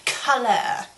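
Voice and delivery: "Color" in a mimicked accent; "Color" in someone else's accent; imitated accent. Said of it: "she just says it with an accent".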